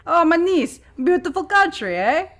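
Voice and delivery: high, loud foreign granny. Acted. Granny's accented remark on train.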